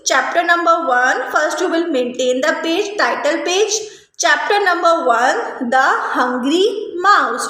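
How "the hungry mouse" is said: slow dictation. Shown as a demonstration. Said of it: "You will write like this".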